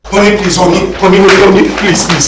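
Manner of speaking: frantic begging. Acted. Husband begging wife not leave.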